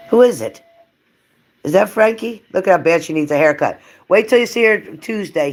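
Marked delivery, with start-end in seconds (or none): 0.1-3.8 very high, loud excited pet voice. Real, not acted. Owner asks her dog at the window who is coming, high loud baby talk.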